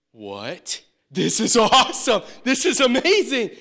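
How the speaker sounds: laughing, high and loud disbelief; excited laughing. Retold or imitated. Young salesman handed the car keys, laughing in delight. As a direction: laugh with joy at the offer.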